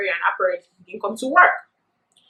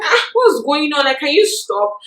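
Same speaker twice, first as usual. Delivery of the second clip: higher-pitched, mildly alarmed objection; retold startled protest; 5 semitones higher than usual. Student to teacher searching her pocket, startled protest. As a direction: object as if caught off guard, pitch jumping up. Acted protest at being touched.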